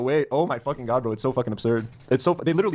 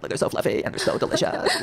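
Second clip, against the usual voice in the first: much higher airy parody with a laugh; mock influencer voice; 12 semitones higher than usual. Streamer imitating the bread influencer, high airy parody. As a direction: mimic her breathless cooking-video tone. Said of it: "why do you talk like that".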